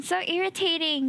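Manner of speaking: Singapore accent, letting it slip out naturally; a natural Singapore English lilt; Singapore accent slipping out. Real, not acted. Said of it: "The Singapore accent came out".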